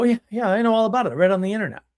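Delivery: eager know-it-all. Retold or imitated. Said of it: "And they go".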